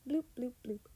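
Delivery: imitated electronic alert; phone bleep. A narrator's reading. Narrator mimicking phones as a friend gets close, bleeps. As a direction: voice three quick little bloops. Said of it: "phones sounded in tandem".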